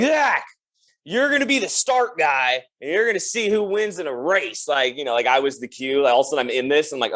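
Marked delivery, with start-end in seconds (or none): 0.0-4.7 put-on drunk excitement. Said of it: "And they're like".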